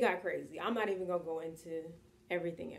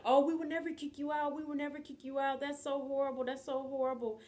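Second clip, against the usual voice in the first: higher-pitched imitation of earnest promises; mock dismay; 7 semitones higher than usual. Au pair mimics host family promising never to evict her, mock dismay. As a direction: parrot their hollow reassurance in a high voice. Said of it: "they kept saying, like".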